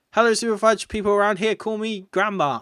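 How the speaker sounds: a hint of a sweet old grandma. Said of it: "She says".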